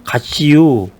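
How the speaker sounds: short, lightly lilted Chungcheong farewell; 짧은 충청도 사투리 흉내; Chungcheong dialect. Retold or imitated. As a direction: clip it off the Chungcheong way. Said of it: "충청도 사람들은".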